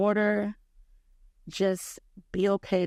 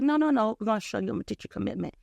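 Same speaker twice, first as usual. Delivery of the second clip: firm correction; 3 semitones higher, faster than usual. Retold or imitated. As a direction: correct her quickly. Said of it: "He was like".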